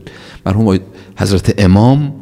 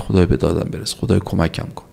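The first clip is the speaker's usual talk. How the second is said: imitated pleading; 5 dB quieter than usual. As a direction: voice a hushed, understated cry for help. (التماس آرام و نمایشی به خدا)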